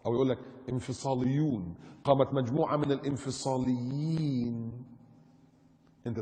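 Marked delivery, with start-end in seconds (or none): 0.7-4.7 slow, drawn-out news-report delivery; mock newsreader. Preacher parodies media naming fighters separatists, mock newsreader. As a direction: intone it slowly like a bulletin.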